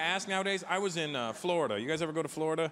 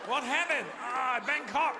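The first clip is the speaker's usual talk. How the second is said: mock official; 9 semitones higher, slower than usual. Thai naming meeting, returning from lunch.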